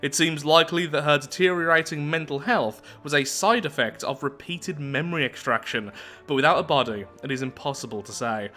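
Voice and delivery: measured read-aloud narrator voice; story narration. Acted. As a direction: read the lore out evenly, like an audiobook. Reads game story text.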